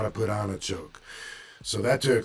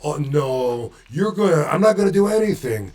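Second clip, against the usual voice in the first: put-on Boston accent; 4 semitones higher, 6 dB louder than usual. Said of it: "put his accent in when I remember him talking".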